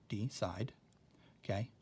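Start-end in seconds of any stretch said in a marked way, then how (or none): 0.1-0.7 "D side" in two distinct syllables; "D side" with the syllable boundary shown; syllable break. Shown as a demonstration. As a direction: separate "D" from "side" with a short break. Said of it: "That's where the syllable is".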